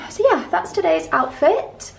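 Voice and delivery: breathless after talking; slightly winded, catching breath. Real, not acted. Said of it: "I'm really out of breath from talking so much".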